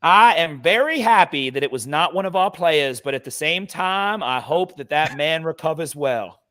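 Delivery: put-on slow, old-timey gentleman's speech; Mister Brooks. Fan quoting the older gentleman behind him, old-timey imitation. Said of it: "very old-timey way of speaking".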